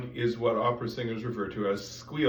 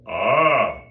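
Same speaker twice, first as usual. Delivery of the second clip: louder airy ah without a focused core; pillow of air; 10 dB louder than usual. Shown as a demonstration. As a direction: let a wide puff of air through. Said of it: "that's a pillow".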